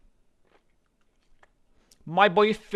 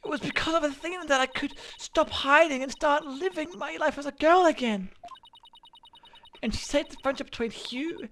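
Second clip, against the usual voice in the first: put-on higher, earnest girl defending her friend, louder at first; Juniper's voice; 10 semitones higher, 6 dB louder than usual. Juniper standing up for Athena in court, higher earnest voice. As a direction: plead for Athena with heartfelt conviction.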